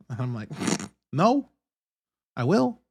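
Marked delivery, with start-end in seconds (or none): 1.1-2.8 high, loud joking no then giving in; mock protest. Answering wife about bathing kids, mock protest. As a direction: whine no, then cave.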